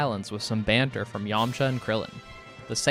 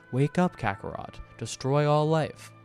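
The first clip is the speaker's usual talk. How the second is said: lightly imitated robot voice. Video essayist quoting the dub's added pod line, lightly robotic. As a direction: quote it with a hint of robotic monotone. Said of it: "a robot voice saying".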